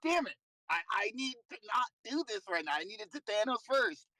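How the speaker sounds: sharp, high frustrated outburst at himself; self-scolding. Retold or imitated. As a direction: curse the misplay, pitch jumping up. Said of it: "I'm like".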